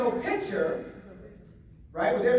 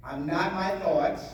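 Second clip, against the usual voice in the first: slow affirmation; 3 semitones lower, slower than usual. Shown as a demonstration. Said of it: "Say this in your head".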